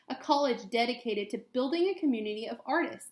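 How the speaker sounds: clear, gentle storybook read-aloud; reading to children. Acted. Teacher reading a picture book to students, gentle read-aloud.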